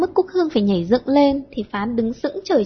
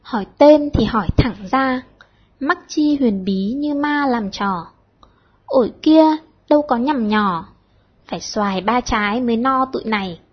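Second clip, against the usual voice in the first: measured, lightly declaimed verse; slow poem recital. A narrator's reading. The poet slowly recites his verse to the girls. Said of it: "chậm rãi đọc".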